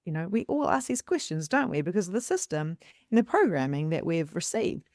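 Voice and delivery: ordinary delivery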